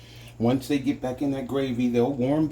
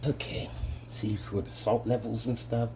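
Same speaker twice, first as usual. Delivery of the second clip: whispering; 6 dB quieter than usual. Real, not acted. Aside while tasting.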